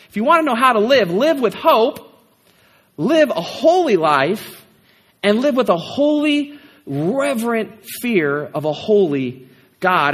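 rising fervour, slowing on "holy God"; preaching cadence. Acted. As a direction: drive each command home. Preaching the three commands.

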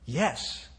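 soft, hushed little yes; a small child whispering; child's whisper. A narrator's reading. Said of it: "whispered the small voice".

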